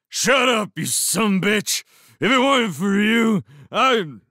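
high, very loud furious yell; angry shout. A narrator's reading. Foss shouting past Dell to Lewis, furious yell. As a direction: yell it in fury, breaking off abruptly. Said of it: "shouting past her to Lewis".

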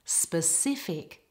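"Specific" slowly, stress on the middle part; second-syllable stress. Shown as a demonstration. Teacher models it for non-native speakers, second-syllable stress on "Specific". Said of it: "the stress is on the second part".

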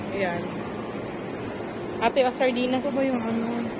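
ordinary delivery

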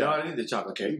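mock little-kid denial, lightly done; seven-year-old. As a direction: deny it like a kid caught out. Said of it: "She's doing that like a seven-year-old".

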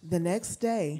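projected scripture reading. Real, not acted. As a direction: read it out so the room can hear. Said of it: "Read it a little louder".

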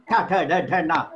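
"Ta, tha, da" with tongue hitting the roof; retroflex sounds. Shown as a demonstration. Teacher showing murdha sounds, retroflex. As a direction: curl the tongue up for "ta, tha, da, dha, na". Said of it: "hitting on the upper part like this".

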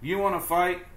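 high, loud, picking a fight; grouchy ladybug. Acted. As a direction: taunt them to fight. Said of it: "said the grouchy ladybug".

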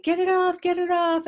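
high, loud mock panic; panicked kid. Mother imitating her daughter's high panicked squeal. Daughter freaking out over poop.

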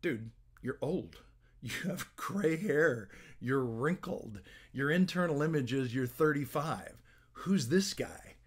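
slow, drawn-out critical voice, lightly acted; mock self-criticism, taken slowly; inner critic. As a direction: lightly play a nagging inner critic, stretching the key words. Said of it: "My inner critic is gonna say".

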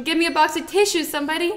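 high-pitched, put-on weepy request; playfully choked up; mock tearful. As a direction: beg as if welling up. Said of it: "Or am I crying over a Lego family?".

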